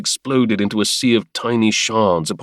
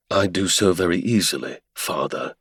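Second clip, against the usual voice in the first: mocking; 2 semitones lower, 4 dB quieter than usual. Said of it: "he said mockingly".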